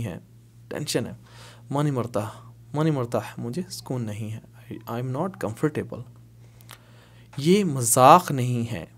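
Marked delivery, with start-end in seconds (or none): 4.7-6.0 very slow, word by word; slow teaching read. Shown as a demonstration. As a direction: drill it slowly for the class. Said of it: "slow translation for learners". (बहुत धीरे पढ़ाते हुए)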